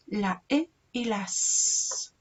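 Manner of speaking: "s" held as a long hiss, after a separate "e"; letter by letter sounds. Shown as a demonstration. Teacher spelling out the syllable for children, slow letter sounds with "s" held. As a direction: slowly sound out "e", then a sustained "s". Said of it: "Ahí dice pez".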